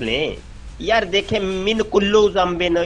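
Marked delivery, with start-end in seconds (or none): 1.4-2.8 drawn-out "من کلو ذنبن", quoting the mistake; mock mispronunciation. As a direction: stretch "من کلو ذنبن" slowly, ending KULLU on a long u. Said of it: "یہ کیا یار". (غلط تلفظ کی نقل، "من کلو ذنبن" کھینچ کر)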